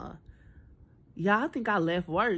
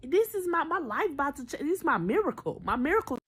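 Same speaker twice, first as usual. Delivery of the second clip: mock starry-eyed hope; 8 semitones higher than usual. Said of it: "So I'm thinking".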